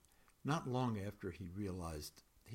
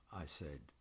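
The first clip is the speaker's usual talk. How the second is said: measured, even poetry reading voice. A narrator's reading. Poet reading a dreamlike poem to an audience, measured reading. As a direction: read the poem to the room, letting lines land.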